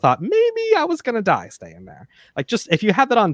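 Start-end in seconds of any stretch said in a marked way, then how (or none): 0.2-2.1 mock fear. Retold fearful thought.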